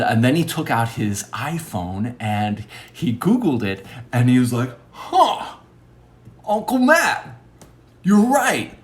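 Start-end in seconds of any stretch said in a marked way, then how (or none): 4.9-8.7 high-pitched, astonished realization; high, drawn-apart phrases of dawning surprise; surprised nephew. Retold or imitated. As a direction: imitate a nephew amazed his uncle is right. Nephew's surprise at search result.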